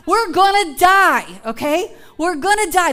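hammed-up we're gonna die; mock despair. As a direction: laugh through a fake wail. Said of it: "I've felt that before".

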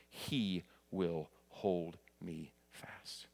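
measured, reverent reading of hymn verse; spoken hymn with spaced, hushed refrains; hymn recitation. Acted.

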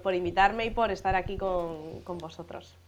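stuffy nose from a cold; nasal voice. Real, not acted. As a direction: speak through a blocked nose. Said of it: "perdonad por esta voz nasal que tengo".

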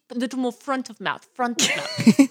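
British accent placed forward in the mouth; front-of-mouth British accent. Shown as a demonstration. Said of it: "think of the front of mouth".

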